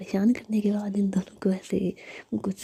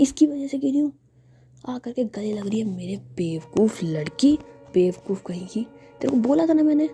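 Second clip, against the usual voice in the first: angry scolding; 6 dB louder than usual. Acted. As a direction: blame her, fuming from the fall. Jiya fell off bed, scolds Nidhi. (गिरने के बाद गुस्से में डांटना)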